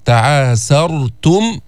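slow chant, thick dark ر in تعاسرتم; light س, then heavy ر in تعاسرتم. Shown as a demonstration. Teacher showing students the heavy ر in تعاسرتم. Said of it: "فخمنا الراء".

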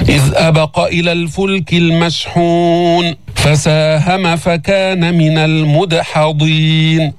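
measured tajweed, slowing to the end; Quran recitation. Shown as a demonstration. Teacher recites the verses for learners, measured recitation. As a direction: stretch the final long vowel.

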